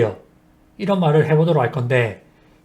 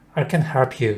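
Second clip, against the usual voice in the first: HELP stressed, "can" light. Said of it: "help에서 help의 강세를 넣으셔야 돼요".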